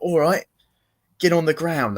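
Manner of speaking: gunman's order. Retold or imitated. Acts gunman giving an order.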